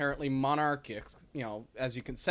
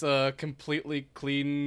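sarcastic; 2 semitones lower, slower than usual. Acted. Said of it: "If you can't tell by our sarcasm".

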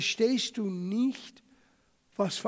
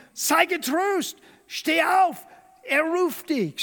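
higher and louder, suddenly friendly; eager crowd call; 6 semitones higher, 5 dB louder, slower than usual. Acted. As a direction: call out brightly to him. Crowd now calls the beggar.

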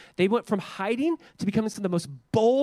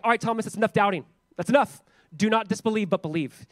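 firm Jesus; 3 semitones higher than usual. Retold or imitated. Jesus tells Thomas firmly that doubting is over. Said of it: "Jesus is like".

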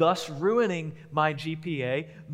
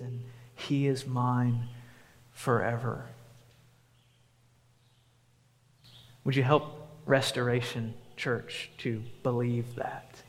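prayer. Acted. Pastor praying over the church, gentle and earnest.

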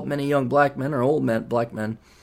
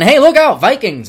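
mock Brit; 7 semitones higher, 7 dB louder than usual.

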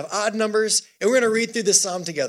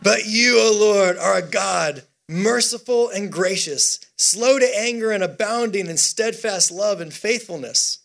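firm, measured proclamation; psalm reading. Acted. Preacher leading the church in verse, firm declamation. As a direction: read it out deliberately to the room.

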